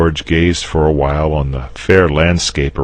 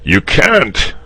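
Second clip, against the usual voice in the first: higher, louder gloating; a dragon crowing in triumph; triumphant; 10 semitones higher, 5 dB louder than usual. Acted. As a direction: crow over the victory. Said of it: "said the dragon triumphantly".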